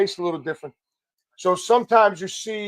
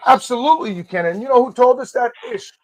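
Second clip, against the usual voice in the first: emphatic; 5 semitones higher, 5 dB louder than usual. Retold or imitated. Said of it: "I said".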